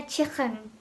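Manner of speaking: "chicken" with a Liverpool throaty k, like "chikhen"; Liverpool accent. Shown as a demonstration. Teacher showing Liverpool speech to learners, Liverpool accent. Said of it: "contohnya Liverpool accent itu".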